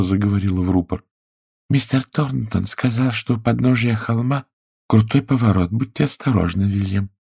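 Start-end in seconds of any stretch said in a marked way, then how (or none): 1.7-7.1 higher, careful woman's voice; higher woman's voice into a speaking tube; wife's voice. A narrator's reading. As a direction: call instructions to the driver as the wife.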